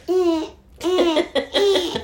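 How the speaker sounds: high imitated beeping, laughing through it; alarm beeps. Retelling the alarm to her co-host, high laughing beeps.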